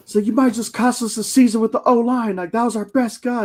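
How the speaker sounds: high-pitched, loud yell. Retelling yelling at the coach from the stands: imitating someone screaming. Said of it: "started screaming at Mora".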